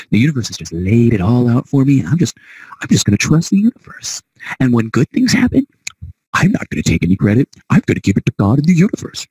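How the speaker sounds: high, hammed-up naive believer; funny mock voice. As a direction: parody someone blissfully handing it all over. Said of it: "I said that kinda funny".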